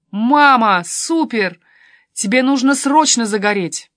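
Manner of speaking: loud, delighted exclamation; excited daughter. A narrator's reading. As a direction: gush to your mum, urging her on. Daughter thrilled by mother's new look. (восторженно, громко)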